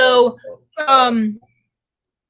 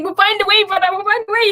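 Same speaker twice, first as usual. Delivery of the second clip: a playful put-on Wakanda accent, said to a friend; imitating Wakanda accent; 6 semitones higher than usual. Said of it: "talking like people do in Wakanda".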